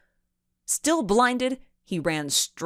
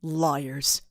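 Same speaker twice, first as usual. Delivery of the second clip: a lower, scornful single word; sneering; 3 semitones lower than usual. A narrator's reading. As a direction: dismiss the girls with contempt. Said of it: "and then sneered".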